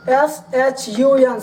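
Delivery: each letter said slowly and clearly; slow spelling. Shown as a demonstration. Teacher spelling SHUN slowly for students. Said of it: "teacher spells word letter by letter".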